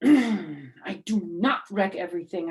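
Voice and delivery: indignant. Acted. Junie argues with May, loud and indignant. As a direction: push back like an offended kid.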